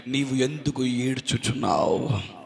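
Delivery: low, slow, hushed asking; tender question. Acted. God asking the weeping believer why, tender. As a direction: drop down and ask it gently, drawn out.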